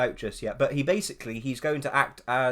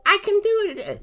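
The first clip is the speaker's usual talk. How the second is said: Scottish accent; 8 dB louder than usual. Shown as a demonstration.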